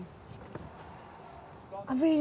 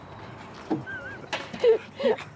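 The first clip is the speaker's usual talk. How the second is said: delighted laugh; 3 dB quieter than usual. Real, not acted. Offered a heavy wardrobe.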